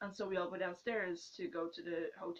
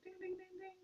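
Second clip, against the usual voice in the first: much higher, sing-song prize-bell announcer; lightly mimicked arcade game announcer; carnival machine voice; 8 semitones higher than usual. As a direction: play the strength-tester chiming at the winner. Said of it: "and then it goes like".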